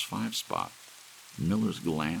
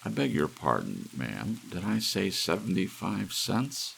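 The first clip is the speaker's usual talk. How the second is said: uncertain; 5 semitones higher than usual. Acted. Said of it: "said uncertainly".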